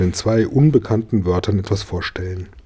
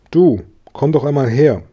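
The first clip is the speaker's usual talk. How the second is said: slightly raised, higher call; calling over; 5 semitones higher, 4 dB louder than usual. A narrator's reading. Boy beckons Gabi across the yard, calling out. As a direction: call someone over, mildly. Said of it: "rief er".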